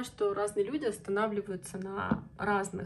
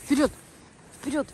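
calling out; 6 semitones higher, 10 dB louder than usual. Real, not acted. Urging the dog on.

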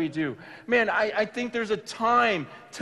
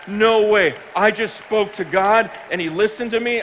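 loud, punchy disbelief at answered prayer; acted-out amazement; amazed outburst; 6 dB louder than usual. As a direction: exclaim it like you can't believe it.

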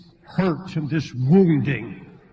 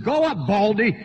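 taunting call, raised in pitch; mocking jeer; 4 semitones higher than usual. Young men heckling the old prophet, mocking. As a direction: jeer at him as a heckler would. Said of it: "they start mocking him".

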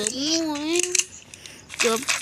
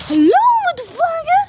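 higher, louder, drawn-out taunt; mock taunt shout; 8 dB louder, much slower than usual. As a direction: stretch it out, yelling at the enemy. Mocking other players in game. (ตะโกนยั่วยาวๆ เสียงสูง)

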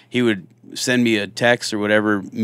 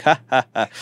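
mocking ha ha ha, voiced higher; mock laugh; 5 semitones higher, 3 dB louder than usual. Partner mocking an officer sick at the sink, hammed-up ha ha ha. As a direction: imitate a partner laughing at you. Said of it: "Brian's laughing at me like".

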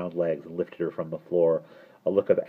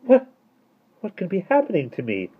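high, sweetened voice; sweet, wondering question; 13 semitones higher, 4 dB louder than usual. A narrator's reading. Miss Tartlett finding herself changed, sweet. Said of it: "her gruff voice was as sweet as honeysuckle".

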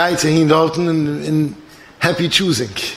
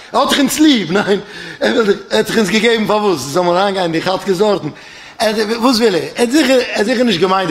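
higher-pitched, laughing protest; amused disbelief; 5 semitones higher than usual. Acted. Children scoff at father's supposed meaning. (לאכנדיגער אומגלויבן)

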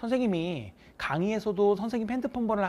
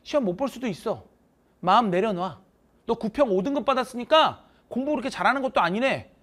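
emphatic teacher; 4 semitones higher, 5 dB louder than usual. Retold or imitated. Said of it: "내가 뭐라 그러냐면".

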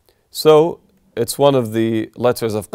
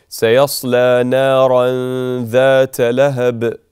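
Quran recitation; 5 dB louder than usual. Shown as a demonstration. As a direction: recite it like a qari in prayer. Recites the verse.

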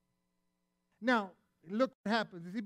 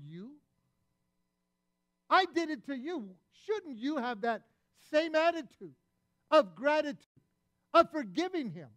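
stern rebuke; 3 dB louder than usual. Retold or imitated. Master rebukes the ungrateful servant.

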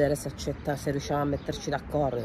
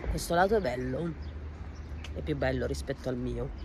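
talking around a candy; mouth full. Real, not acted. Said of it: "ho la caramella in bocca".

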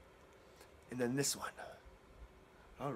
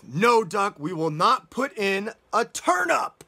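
louder, emphatic telling-off; firm refusal; 3 semitones higher, 5 dB louder than usual. Acted. Storyteller voicing Mouse refusing Duck, firm and loud. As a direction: put your foot down.

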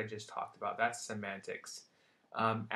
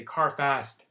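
put-on toddler voice; 3 semitones higher, 9 dB louder than usual. Shown as a demonstration. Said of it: "telegraphic speech".

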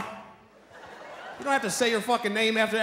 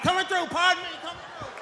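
higher, pushy polite voice; mimicking cousin; 7 semitones higher, 3 dB quieter than usual. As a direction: squeeze through the crowd mockingly. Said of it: "starts pushing his way".

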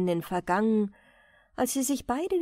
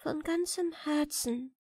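softer, deeply moved reply; 6 semitones higher, 5 dB quieter than usual. A narrator's reading. Girl forgiving her sister, softly moved. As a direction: answer quietly, full of emotion. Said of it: "sagte Walli bewegt".

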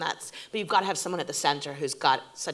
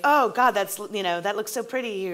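higher and louder, swooning; delighted gush; 5 semitones higher, 5 dB louder than usual. Retold or imitated. Showrunner admiring dailies mid-pitch, delighted higher gush. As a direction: swoon at the footage. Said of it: "or like".

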